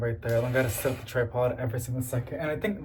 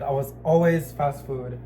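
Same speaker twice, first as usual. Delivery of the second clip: ordinary talk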